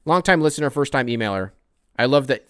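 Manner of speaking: reads the fan's email out loud and eager; excited fan email read. Acted. Host reading a listener's email aloud, loud and eager. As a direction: give the fan's words a loud, eager lift. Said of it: "From Benjamin".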